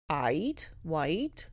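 put-on "ait, white" with the old open "ai" vowel; "ait" and "white" said like "eight" in old English; old pronunciation. Shown as a demonstration.

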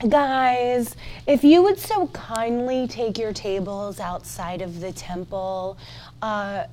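soft, hesitant, overly polite request; mock-meek plea dropping toward a whisper; timid suggestion. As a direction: tiptoe through a feeble, hushed request. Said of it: "He didn't just suggest".

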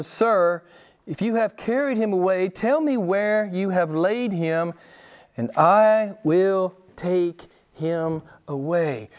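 lifted voice, slowing to measured words; plead, drawing out the last words; Mary's plea. Retold or imitated. Mary begs the supposed gardener for the body, pleading.

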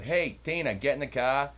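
loud, high Northern US accent. Shown as a demonstration. Host imitates folks up north calling Tina, Northern accent. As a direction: call Tina over in a mock Northern accent. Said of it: "Okay, up north you have".

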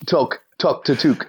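first two toque said "toke", last toque said "took"; near-identical pronunciations compared. Shown as a demonstration. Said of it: "How close is that?".

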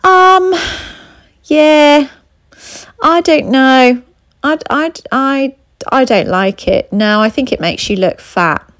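high, hesitant, faltering start settling into a blunt dig; hesitant put-down. Retold or imitated. Partner judging your dress, hesitant then blunt put-down. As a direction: stall with ums and stammers, then land the insult. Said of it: "another example where it might be".

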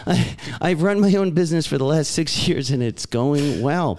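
put-on British reading, swinging intonation; British accent. Co-host reading Englishman's recovery email, British accent. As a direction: play the English letter-writer, British accent. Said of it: "this whole thing in a British accent".

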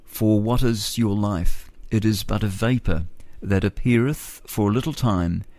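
measured Bible reading; scripture reading. Acted. Radio host reads Bible verse to listeners, reverent. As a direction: read the verse reverently, slowly at the end.

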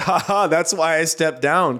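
imitating an awkward forced chuckle, then the answer; retold nervous-laugh answer; mock nervous laugh. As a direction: fake a nervous "ha ha" into the quote. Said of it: "he did the nervous laugh and said".

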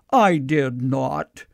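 slow, measured pronouncement in a mildly booming voice; mock booming voice. A voice across the room corrects the patient, mildly booming. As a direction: draw it out slowly, lightly imitating a booming voice. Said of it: "there was a booming voice across the room".

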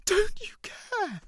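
slow, high, full-force scream; shout. Acted. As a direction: scream it at him. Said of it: "so I shout".

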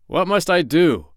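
high, slow pirate plea; cornered pirate. A narrator's reading. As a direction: ask helplessly, drawing the words out. Cornered pirate asks doctor.

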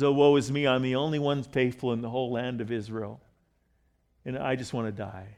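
understated woe, trailing off softly; a touch of weary self-pity, fading away; mildly depressed. Retold or imitated. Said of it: "He gets depressed".

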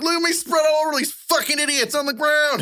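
high, hammed-up southern voice of the dead vet; southern drawl. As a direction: cackle it like a gleeful old southern ghost. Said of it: "I don't know why he was southern".

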